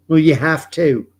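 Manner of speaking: put-on high, loud, botched Kiwi accent; failed Kiwi accent. Mocking New Zealand's prime minister in a botched Kiwi accent. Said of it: "I can't do a Kiwi accent at all".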